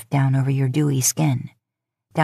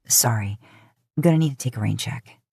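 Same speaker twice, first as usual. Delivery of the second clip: hurried low apology; 5 semitones lower than usual. Acted.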